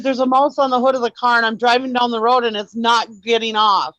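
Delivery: high, insistent retold distress; mildly acted tearful complaint; retold tearful panic. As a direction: replay the panicked phone call. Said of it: "just sobbing".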